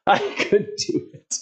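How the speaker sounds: breathless, slow and whispery; out of breath. Real, not acted. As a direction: gasp it out spent. Repeated breathlessly after laugh.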